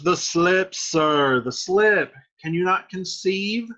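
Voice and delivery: high, loud, mock-emphatic jab; teasing retort. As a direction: throw it at a friend as a taunt. Acts out Mercutio's teasing retort.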